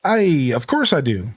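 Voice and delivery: slow, lilting Scottish joke-teller; Scottish accent. Acted. Game character tells a cheesy cow joke, Scottish accent. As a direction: set up the gag in a Scottish accent. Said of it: "It's the Scottish accent makes the joke".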